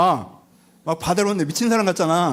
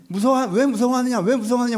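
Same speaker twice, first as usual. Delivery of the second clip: high-pitched mock telling-off; acted scolding; 5 semitones higher than usual. Jesus telling off his frightened disciples, acted scolding. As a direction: scold them with a raised pitch, lightly acted. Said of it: "막 혼내".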